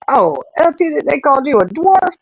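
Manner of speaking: high, shocked reaction; surprised. Real, not acted. Vlogger reacting to viewer called a dwarf, shocked high. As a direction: gasp at the comment.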